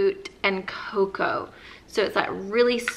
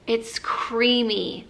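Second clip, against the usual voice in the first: whispered; much slower than usual. Real, not acted. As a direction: breathe it like a secret. Savoring the lotion.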